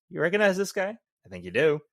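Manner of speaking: high, loud dramatic reveal; dramatic cop line. Retold or imitated. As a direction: lean into the big reveal. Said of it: "the most dramatic sense".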